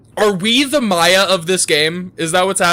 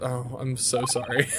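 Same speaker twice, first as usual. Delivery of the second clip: laughing apology; 3 semitones lower, 7 dB quieter than usual. Real, not acted. Breaks up over own bad accent.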